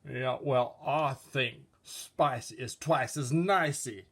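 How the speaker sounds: spicy food figure. Acted. Spicy object figure answering back, smug and pleased. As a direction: brag about being spicy.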